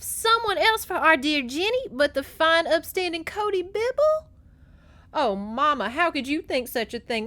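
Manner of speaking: high, loud, theatrical mock outburst; mock-sweet troublemaker, pitched high and loud; Lissa. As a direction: pop off in a hammed-up, singsong taunt. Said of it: "And Lissa pops off".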